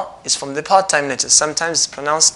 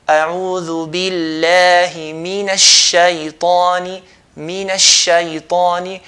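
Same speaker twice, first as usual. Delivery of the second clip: Quran recitation; 3 dB louder than usual. Shown as a demonstration. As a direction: recite each word with care. Teacher recites.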